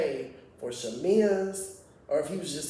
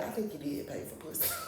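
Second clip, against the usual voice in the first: softly imitated confidential remark; hushed imitation of a sly aside; confiding aside; 6 dB quieter than usual. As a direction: lean in and quietly share gossip. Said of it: "she leaned in and said".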